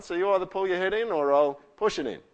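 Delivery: high, loud mock threat; acted scolding; protective God. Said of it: "He's going".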